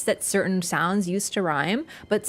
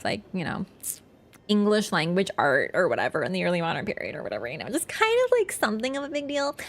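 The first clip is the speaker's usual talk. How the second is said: lightly voiced Valley Girl, lots of likes; breezy mock Valley Girl explaining Shakespeare. Telling chat about the Globe in a light Valley Girl voice. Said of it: "I don't know why I went full Valley Girl for that".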